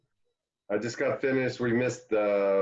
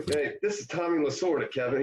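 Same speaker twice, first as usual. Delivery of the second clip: Tommy Lasorda impression; 5 semitones higher than usual. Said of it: "you know, Tommy".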